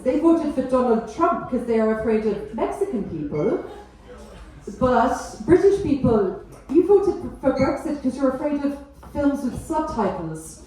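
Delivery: lightly camp German accent, mocking Brits; a touch of camp German lecturing. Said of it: "I'm just doing slightly Camp German".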